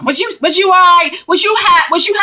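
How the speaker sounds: mock the sister's phony caring tone; mock fake concern. Sisters pretending to care about the hot child, mocking. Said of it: "her and her sister trying to punk".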